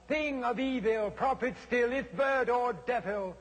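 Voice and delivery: brand the bird a devil; accusing cry. A narrator's reading. Narrator denounces the raven, high and urgent.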